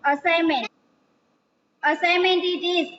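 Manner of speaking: slow, deliberate dictation; dictating slowly. Shown as a demonstration. Teacher dictating the notebook title to pupils, slowly. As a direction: spell out the word slowly for notebooks. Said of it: "title is assignment".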